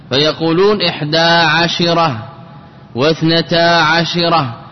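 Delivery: both times عشرة gets a short "i" after the sh; shin with kasra. Shown as a demonstration. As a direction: say عشرة as "ʿa-shi-ra". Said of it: "بكسر الشين". (نطق عشرة بكسر الشين)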